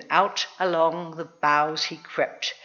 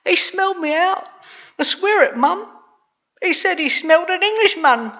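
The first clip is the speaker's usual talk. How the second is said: put-on very high, urgent boy; high-pitched, loud young Jack; panicky insistence; 11 semitones higher, 5 dB louder than usual. A narrator's reading. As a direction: swear it to a doubting mum. Frightened Jack insists to mother.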